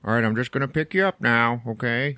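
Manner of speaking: loud, cheery coaxing; overly nice. Retold or imitated. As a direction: sweeten it for a sick old man. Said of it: "trying to be all nice".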